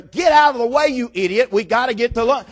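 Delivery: acted angry shout, easing off toward the end; cussing drivers. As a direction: yell like a motorist stuck in traffic. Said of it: "They're cussing".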